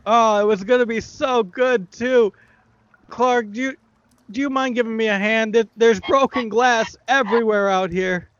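high whiny goblin. Acted. Illusion goblin asks Clark for help in a high whine. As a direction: plead up high like a clumsy goblin.

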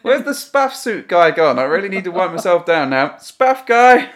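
calling out. Pretend. Calling out for spaff suit guy.

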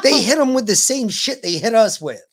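excited. Real, not acted. Laughing exchange about tasers.

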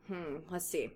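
soft, thoughtful murmur to oneself; low-key pondering, under the breath; musing. A narrator's reading. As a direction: muse it quietly, trailing down. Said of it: "he mused".

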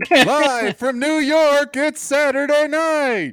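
slow, high, loud show opener; TV announcer. Retold or imitated. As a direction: announce it like the SNL opening. Mock SNL opening.

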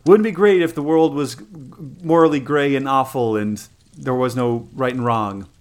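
mocking caricature of a whiny writer; mocking imitation. Fan mimicking an author from a meme, mockingly. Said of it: "and he's like".

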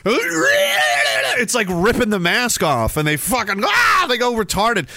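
rising heated shout; heated rant. Real, not acted. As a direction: ramp up into an angry rant. Ranting about enemies losing it.

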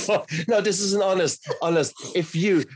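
high, loud, laughing comfort; laughing reassurance. Real, not acted. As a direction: laugh her through the tears, gently insisting. Laughing kindly at her tears.

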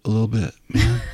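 lightly voiced Keanu-style surfer. Shown as a demonstration. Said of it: "talk like Keanu Reeves a little".

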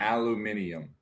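"Aluminium" with an extra i before the end; five-syllable "Aluminium"; British pronunciation. Shown as a demonstration. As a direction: say "Aluminium" as al-yoo-MIN-ee-um. Contrasts British form with aluminum.

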